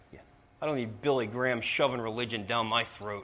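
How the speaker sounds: put-on low, contemptuous, disgusted, fed-up tone. Speaker retells what another golf pro said, imitating someone sounding disgusted. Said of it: "with disgust".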